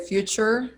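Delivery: future with an American R at the end; r-coloured ending on future; American pronunciation. Shown as a demonstration. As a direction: sound the final R in future, 'FYOO-cher'. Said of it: "Americans would sort of say more like future".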